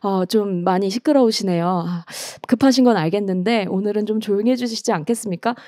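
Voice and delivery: hesitant, hushed politeness; mock polite request. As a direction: ask very nicely for some quiet. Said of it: "곱게 예쁜 말로".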